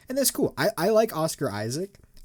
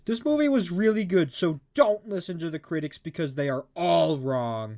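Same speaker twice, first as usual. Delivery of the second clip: gushing reviewer voice; 4 semitones higher than usual. Retold or imitated. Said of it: "the first audience review from Google".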